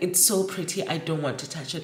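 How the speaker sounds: normal talking voice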